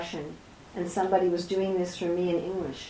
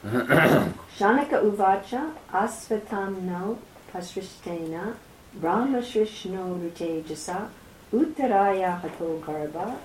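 measured, intoned scripture recital; Sanskrit verse recitation. A narrator's reading.

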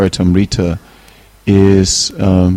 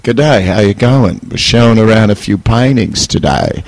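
put-on Australian accent. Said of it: "in my best Australian accent".

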